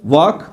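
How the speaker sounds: walk said wok with no l; teacher models walk for the class; walk, l silent. Shown as a demonstration. Walk, एल खामोश. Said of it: "ये वॉक नहीं है".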